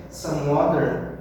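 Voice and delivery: some water with the T flapped to a D; American water. Shown as a demonstration. Teacher acting out ordering water, American flap. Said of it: "parecido com um D".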